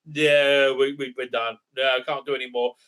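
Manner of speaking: low, deflated imitation; mock giving up. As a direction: let it sag into feigned resignation. Mocks aliens giving up.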